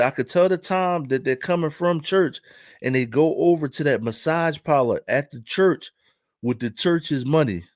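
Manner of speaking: lightly imitated African accent. Parking lot guy telling what he sees, light African accent. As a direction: keep a hint of African-accented English. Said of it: "Imma do the accent".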